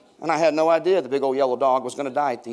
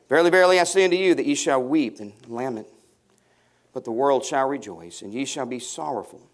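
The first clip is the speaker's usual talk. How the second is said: scripture reading. Acted. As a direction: read the verse again, calmer. Rereads the verse.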